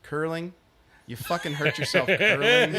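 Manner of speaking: retold disbelief, starting level then building; mock incredulity, building to a laugh; incredulous CT guy. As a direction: imitate a baffled tough guy cracking up. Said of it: "he just stops and he goes".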